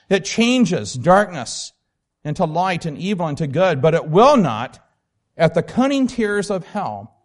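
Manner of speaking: emphatic, measured reading aloud; expressive book reading. Acted. Teacher declaring what pity does, read with weight.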